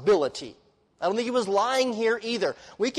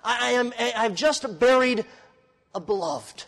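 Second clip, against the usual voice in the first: Paul's mourning; 5 semitones higher, slower than usual. Acted. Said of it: "It says".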